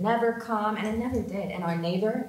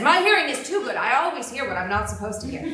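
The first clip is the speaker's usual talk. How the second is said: pointed retort; 3 semitones higher, 7 dB louder than usual. Retold or imitated. Mother's retort continued.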